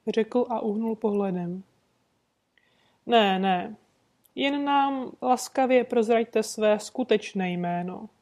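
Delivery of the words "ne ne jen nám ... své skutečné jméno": sweetly insisting. Acted. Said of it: "naléhal Holmes sladce".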